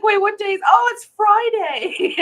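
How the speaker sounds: high, loud sudden double-take; laughing mock shock at the date; surprised realization. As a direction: catch yourself, laughing. Retelling own surprised realization.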